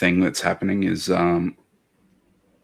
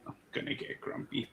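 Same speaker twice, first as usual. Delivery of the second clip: whispering; 16 dB quieter than usual. Real, not acted. Whispered mutter.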